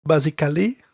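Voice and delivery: "Basically" as bah-zee-kah-lee, French accent; hammed-up French accent on "Basically", four syllables. Shown as a demonstration. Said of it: "with my French accent".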